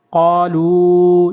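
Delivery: قالو very slowly with the aa drawn out; long qaalu. Shown as a demonstration. Teacher demonstrates the madd in قالو. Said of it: "یہاں پر بھی مد کریں گے".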